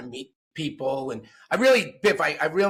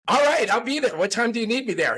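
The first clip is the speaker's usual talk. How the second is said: eager Biff; 8 semitones higher than usual. Retold or imitated. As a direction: jump at the invitation. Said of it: "And Biff goes".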